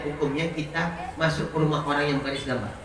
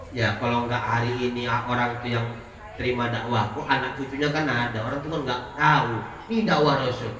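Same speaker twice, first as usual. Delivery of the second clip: patient explaining; 4 semitones lower than usual. Acted. The Prophet calming Jibril, low and patient. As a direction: reassure him gently.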